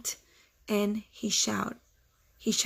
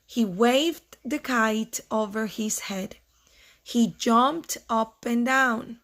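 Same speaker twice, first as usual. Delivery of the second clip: slow, measured read-aloud; storybook reading pace; story narration; slower than usual. A narrator's reading. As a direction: read slowly to children, pausing between phrases.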